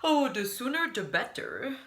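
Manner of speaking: eager to reach bed; weary guest. Acted. Mister Snore to the bellhop, weary.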